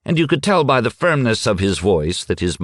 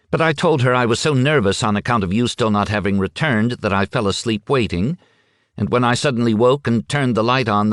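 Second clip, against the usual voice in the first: a lightly higher, quick woman's voice, anxious; hurrying through her excuse, a touch nervous; nervous wife; 5 semitones higher than usual. Acted. Missus Schmidt nervously explains the bulb to the men.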